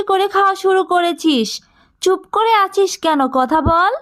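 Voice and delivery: a harsh aunt scolding her niece, pitch up. Acted. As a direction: interrogate the girl sharply. Aunt scolds Tia about food.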